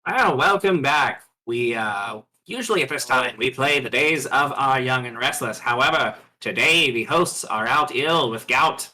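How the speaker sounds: a hint of old-time radio host; lightly voiced radio announcer. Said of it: "the radio voice cuts again".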